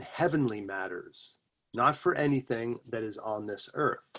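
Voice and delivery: deliberate philosophical recitation; quote reading. Acted. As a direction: read ancient wisdom aloud, weighing each phrase. Reads an ancient quote aloud.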